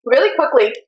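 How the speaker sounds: talking through a mouthful of food; mouth full. Real, not acted. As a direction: speak around a bite of chips. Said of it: "Oh shoot, my mouth is full".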